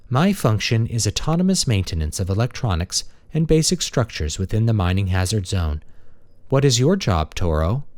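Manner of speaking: a courteous maintenance machine; friendly robot. Acted. Robot character speaking.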